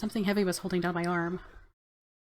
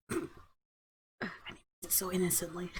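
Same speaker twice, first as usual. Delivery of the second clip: quiet aside; 9 dB quieter than usual. Acted. Aside to the listener.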